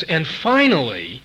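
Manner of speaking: "finally" drawn out slowly with weight; slow, emphasized "finally"; stress on FINALLY. Real, not acted. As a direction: lean hard on "finally" and stretch it. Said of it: "I want to emphasize that word finally".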